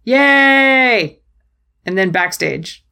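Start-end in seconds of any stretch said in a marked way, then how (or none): 0.0-1.2 high, drawn-out little cheer; happy cheer. Real, not acted. Fan cheering favourite's last-second pin, happy cheer. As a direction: celebrate with a high-pitched hooray.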